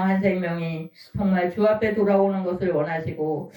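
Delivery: prayer. Acted. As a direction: pray for the congregation earnestly. Leads closing prayer.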